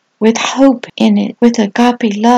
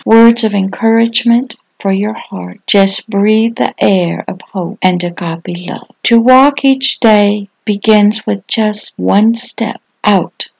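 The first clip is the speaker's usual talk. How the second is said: devotional reading. Acted. Pastor reading encouragement about hope, calm devotional. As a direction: read it like a calm blessing.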